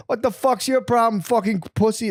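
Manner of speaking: 怒鳴り声の真似. Retold or imitated. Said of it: "he'd be like".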